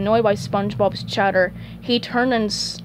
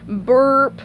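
higher, voiced mock burp; spoken burp; 4 semitones higher, 5 dB louder than usual. Snail finishing his food in one gulp, mock burp. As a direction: say the burp as a drawn sound effect. Snail burps after eating.

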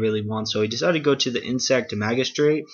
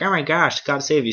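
mock alarm; 5 semitones higher than usual. Jinbei's acted rescue cry.

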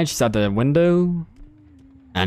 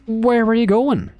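high, sing-song teasing question; mock sweet taunt; 8 semitones higher than usual. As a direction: taunt her like a coy hunter. Killer teasing a fleeing survivor.

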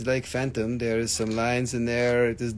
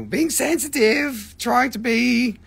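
mock sensitive; 11 semitones higher, 6 dB louder, slower than usual. Mock sensitive voice while teasing.

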